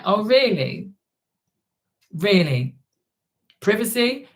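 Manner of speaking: incredulous mocking really, privacy rising high; mock disbelief, pitch climbing; sarcastic disbelief. Real, not acted. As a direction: scoff at the request. Sarcastic reaction to privacy plea.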